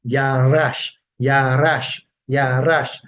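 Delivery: "Yarash" with the R leaned on, slow and clear; teaching "Yarash", R emphasized; Yarash with emphasis on R. Shown as a demonstration. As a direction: say "Yarash" stressing the R, repeating it. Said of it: "with an emphasis on the R".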